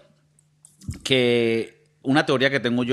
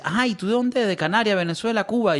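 fourth questioner; 4 semitones higher than usual. Retold or imitated. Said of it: "Luego el cuarto me dice".

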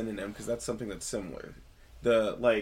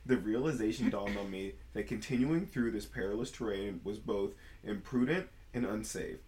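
storytelling voice. Shown as a demonstration. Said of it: "storytelling voice for realsies this time".

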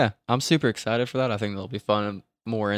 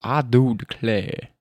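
slow drawling accent attempt; unsure, amateur drawl accent; 2 semitones lower than usual. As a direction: stretch it out in a put-on accent. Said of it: "You just did the accent".

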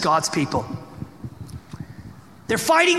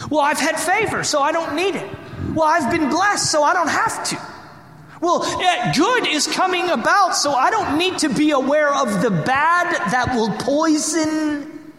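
high, raised voice of a smug believer; preacher mimicking a complacent believer, pitched up; mock complacent believer; 7 semitones higher than usual. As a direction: play the self-assured churchgoer, pitched up.

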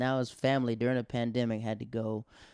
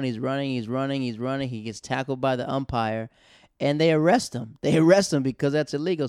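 excited retelling; 3 semitones higher, 6 dB louder than usual. Real, not acted.

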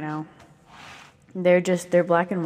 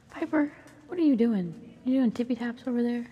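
pet voice; 7 semitones higher than usual. Real, not acted. Owner cooing at her dancing pet Piper. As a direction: coo at the dog, higher.

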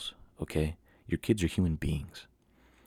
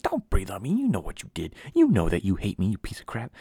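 mock indignant rant; 3 semitones higher, 5 dB louder than usual. Silently berating the hated dog.

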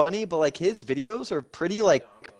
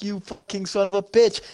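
mock outrage; 5 semitones higher than usual. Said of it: "screaming and laughing at this dude".

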